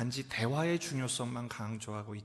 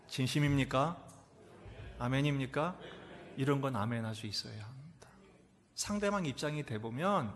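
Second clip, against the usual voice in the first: ordinary talk, nothing marked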